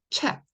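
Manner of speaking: "채" closed on an unreleased T; unreleased final T. Shown as a demonstration. Teacher shows T as 받침, ending "채" on a stopped T. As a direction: say "채" with the T held back at the end. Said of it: "T 발음 다 못 낸다고".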